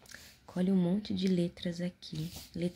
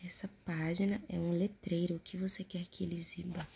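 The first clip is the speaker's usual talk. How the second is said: whispering; 5 dB quieter than usual. Acted. Whispered reading of prompt.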